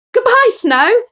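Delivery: high, loud joyful goodbye; gleeful farewell. Acted. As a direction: wave off the snow with glee. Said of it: "Henry laughed".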